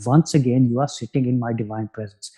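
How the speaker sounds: put-on Indian accent, opening a talk. Shown as a demonstration. Speaker teasing his Glasgow crowd in a mock Indian accent. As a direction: deliver it in an imitated Indian guru's accent. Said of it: "in a perfect Indian accent".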